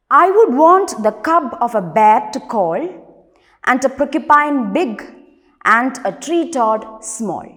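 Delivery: firmly projected verse reading; strong opening, easing off toward the last phrase; poem recitation. Acted. Rereads the stanza aloud.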